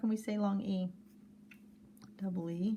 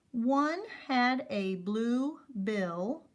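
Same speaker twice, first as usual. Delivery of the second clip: slow reading; 2 semitones higher, much slower than usual. Shown as a demonstration. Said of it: "Let's try to read that whole row".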